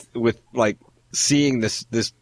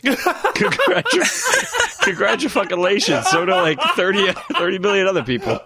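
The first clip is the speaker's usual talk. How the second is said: laughing, high-pitched sarcastic congratulations; mock congratulations; 8 semitones higher, slower than usual. Replying to the woman who owns a Super Nintendo, laughing sarcasm. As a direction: drag it out through laughter, pitched up.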